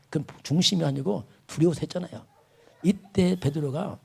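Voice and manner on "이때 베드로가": slowed emphasis. Shown as a demonstration. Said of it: "slowed emphasis, repeated phrase".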